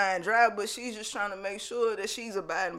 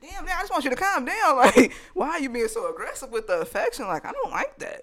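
higher-pitched mock pleading; acted exasperated protest; 5 semitones higher than usual. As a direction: plead with him to back off, playfully. Voices girlfriend protesting his aggressive affection.

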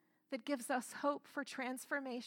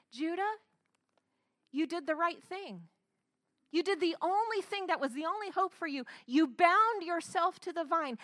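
a higher, louder father's approval; Jacob reassuring Judah; 4 semitones higher, 4 dB louder than usual. Retold or imitated. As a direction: tell the son firmly he did right. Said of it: "Jacob is telling Judah".

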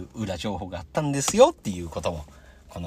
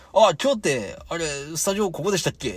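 lightly acted question, pitched higher; retold casual question; 8 semitones higher, 3 dB louder than usual. Wrestler asking the podcaster mid-intro, retold question. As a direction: break in with a higher-pitched query. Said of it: "って聞かれるから".

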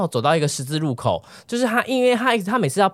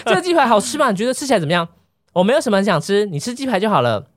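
mock robot smile; 6 semitones higher than usual. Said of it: "因为我在学他".

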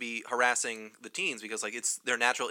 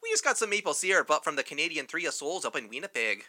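put-on Canadian accent; 3 semitones higher than usual. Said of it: "Your Canadian accent".

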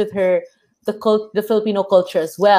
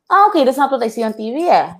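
mock snobbish; 4 semitones higher, faster than usual. Type who shuts out other people's accents, mock snobbish. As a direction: imitate a snob brushing someone off. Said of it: "Like, very snobbish".

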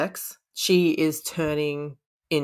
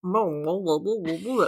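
muffled protest. Retold or imitated. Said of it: "That's how it's written".

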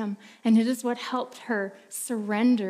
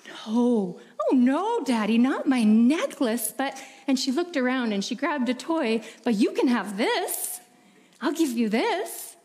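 put-on girl begging her father to let her keep the necklace; pleading little girl. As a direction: beg like a small girl clinging to her treasure.

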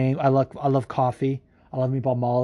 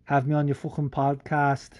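put-on Scouse dialect; fake Scouse accent. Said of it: "I'll do a fake Scouse dialect".

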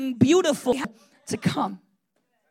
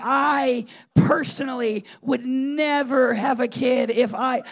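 mock loud protest; 7 dB louder, slower than usual. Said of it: "and I'm like".

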